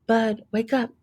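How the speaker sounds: put-on gentle, coaxing call to a sleeping boy; tender morning wake-up; soft wake-up. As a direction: softly wake the child, sweetie. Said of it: "She said in a real soft".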